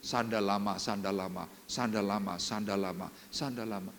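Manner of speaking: soft, dismissive mimic of "sandal lama", fading to a murmur; mocking tongues imitation. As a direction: parody the babble under the breath. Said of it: "cuma ngomong gini loh".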